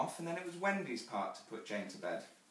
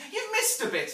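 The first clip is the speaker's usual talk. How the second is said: put-on high, loud little-girl interruption; interrupting child; 10 dB louder than usual. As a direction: cut in like a know-it-all child. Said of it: "interrupts Jane".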